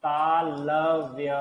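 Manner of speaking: तालव्य stretched slowly, almost sung; drawn-out word. Shown as a demonstration. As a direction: draw out तालव्य syllable by syllable. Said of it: "अगर विसर्ग के बाद तालव्य ध्वनियां". (तालव्य को खींचकर, गाते हुए)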